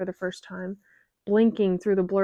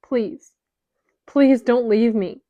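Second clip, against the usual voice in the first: tearful begging; 3 semitones higher, 6 dB louder than usual. Acted. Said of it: "swallowing back a sob".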